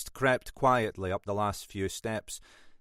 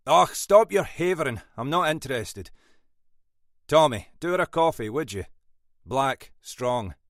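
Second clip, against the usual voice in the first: loud, raised-pitch brush-off easing into orders; impatient boss; 5 semitones higher, 6 dB louder than usual. A narrator's reading. Boss silencing late sergeant, impatient and forceful. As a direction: cut the excuse dead, then give orders.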